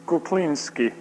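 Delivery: loud announcement of the winner's name; calling out a name. Real, not acted. Reading the drawn card to the crowd, loud call. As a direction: shout the name across the hall.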